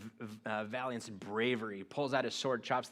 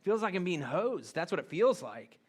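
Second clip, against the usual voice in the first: high, louder frustrated griping; exasperated complaint; 5 semitones higher, 6 dB louder than usual. Retold or imitated. Believer complaining to God about being hosed, loud and exasperated. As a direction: protest to God like you've been cheated. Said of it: "you're like".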